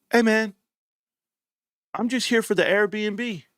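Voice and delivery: big man at the door. Retold or imitated. Retelling the man at his door, a hint of a high clueless voice. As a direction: play the stranger as clueless and casual. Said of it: "he said".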